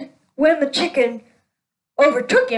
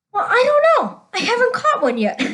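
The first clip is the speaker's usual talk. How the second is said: can't hold the laugh in on the punchline; 10 semitones higher than usual. Real, not acted. Farmer admits he never caught one, laughing through it.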